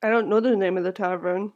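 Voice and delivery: soft, lifeless answer; flat eerie voice. Acted. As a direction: say it softly, empty.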